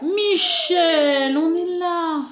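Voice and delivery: high laughing reassurance. Pretend. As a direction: laugh while comforting. Comforting toy with laugh.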